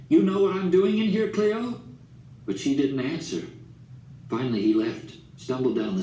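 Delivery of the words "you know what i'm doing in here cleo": much higher and louder, taunting yell; drunken scream. A narrator's reading. Drunk father screaming taunts at his wife, loud yell. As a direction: scream it down the hall at her. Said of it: "he was screaming".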